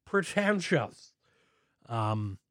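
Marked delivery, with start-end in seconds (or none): 0.0-1.1 "Pretentious" drawn out slow and high; hammed-up "Pretentious"; pretentious said pretentiously. Shown as a demonstration. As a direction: stretch "Pretentious" like a snob. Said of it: "Do I even say that word pretentiously?".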